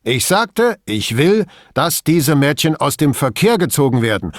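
loud, high, emphatic order; irritated insistence. A narrator's reading. Boss repeating his order to Brunetti, irritated. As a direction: insist on it, out of patience.

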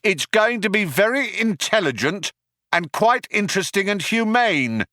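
high-pitched shouted ultimatum. A narrator's reading. Cop gives the group an ultimatum, shouted. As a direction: shout terms across to the cornered suspects. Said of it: "shouted the cop".

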